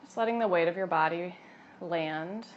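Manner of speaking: calm, unhurried yoga teacher voice; guided meditation. Acted. Yoga teacher settling expectant mothers into breath, guided meditation. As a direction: guide them gently inward, leaving long pauses.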